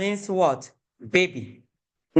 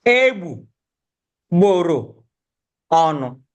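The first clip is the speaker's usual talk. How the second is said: "egbu, gboro, ọnụ" in separate pieces with pauses; broken into syllables; 4 dB louder than usual. Shown as a demonstration. Teacher helping learners sound out a word, "egbu, gboro, ọnụ" broken up. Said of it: "I broke it in syllables".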